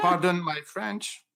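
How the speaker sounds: English with a French accent. Shown as a demonstration. French speaker repeats on request.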